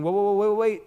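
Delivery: high, loud mock interruption; loud, high rapid-fire "hold on"; urgent halt. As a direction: call an acted stop to everything. Acting God halting creation.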